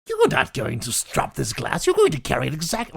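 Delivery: loud, put-on villain voice; hammed-up villain berating. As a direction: scold like a cartoon villain. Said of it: "all my villain voices started coming out".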